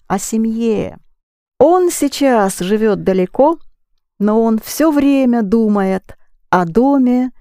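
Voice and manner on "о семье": О семье with the stress on final -ЬЕ; stress on ending. Shown as a demonstration. Teacher corrects student, О семье stressed on the last syllable. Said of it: "You keep the stress on the ending".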